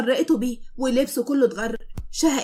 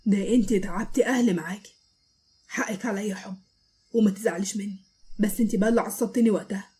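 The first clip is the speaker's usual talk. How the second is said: tender apology; 3 semitones lower than usual. Acted. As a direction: make up with her gently. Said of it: "وهو بيقرب جنب ودها".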